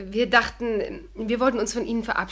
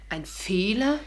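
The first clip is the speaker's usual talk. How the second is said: startled whisper; slower than usual. Acted. Shocked at being called a mistake.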